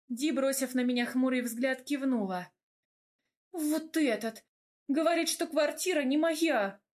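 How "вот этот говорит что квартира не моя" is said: whiny complaint. A narrator's reading. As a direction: complain like a wronged little girl. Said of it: "Жаловалась малышка".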